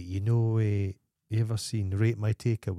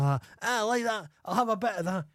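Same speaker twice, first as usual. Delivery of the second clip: high, put-on chancer's voice; cheeky Scottish scrounger; 11 semitones higher than usual. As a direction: help yourself cheekily, pitched high. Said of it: "the cheeky bastard's like".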